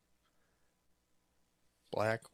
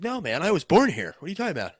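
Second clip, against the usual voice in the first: put-on higher, indignant American accent; American accent, pitched up; mock perfect American accent; 7 semitones higher, 7 dB louder, faster than usual. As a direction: play it indignant in American English. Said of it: "do a perfect American accent".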